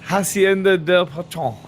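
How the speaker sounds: Hacienda del Patron with a playful Spanish accent. Shown as a demonstration. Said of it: "Can you say it again?".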